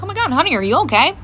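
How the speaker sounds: mildly worried mom, retold; a little concerned. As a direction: gently check on your child. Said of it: "I was a little concerned".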